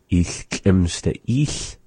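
slow demo of "Ich schlimmste Ich" with a lateral ich; language example. Shown as a demonstration. Teacher modelling the female form "Ich schlimmste Ich". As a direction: say "Ich schlimmste Ich" slowly and carefully. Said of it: "For female would be".

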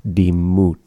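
Dimut said with a distinct T, then a drawn-out s; T sound kept. Shown as a demonstration. Teacher showing a learner the careful ending, Dimut with separate T and S. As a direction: pronounce the T in Dimut before a long hiss of s. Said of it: "speakers will really make that distinction".

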